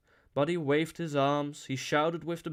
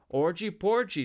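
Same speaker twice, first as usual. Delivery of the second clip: high, loud chanted call; 6 semitones higher, 5 dB louder than usual. A narrator's reading. Dancer takes up the liturgy, high called refrain. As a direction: call it out with pitch raised. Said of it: "the dancer called".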